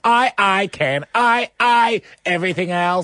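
high, slow stuttering robot. Pretend. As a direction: glitch on each I like a chatbot. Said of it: "you have to do a robot voice".

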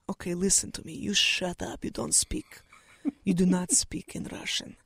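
retold hushed, tense warning; a father's hushed warning in a Moscow taxi. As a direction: hiss it under your breath so no one overhears. Dad warns daughter in taxi.

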